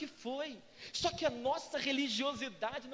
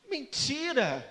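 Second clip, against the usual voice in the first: denouncing; 4 dB louder, much slower than usual. Real, not acted. Denounces the fake prayer.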